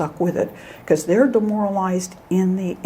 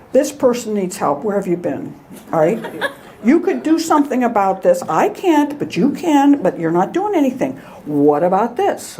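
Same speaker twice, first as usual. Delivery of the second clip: louder, higher mock scolding; scolding God; 3 semitones higher, 3 dB louder than usual. Praying man scolding God, half-laughing exasperation. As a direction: jab at God with an exasperated complaint. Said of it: "always starts out scolding God".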